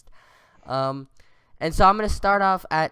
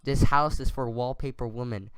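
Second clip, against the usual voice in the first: poem reading; 2 semitones lower than usual. Acted. Reading a friend's slam poem to his co-host, measured recital. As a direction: read the verse out deliberately, unhurried at the ends.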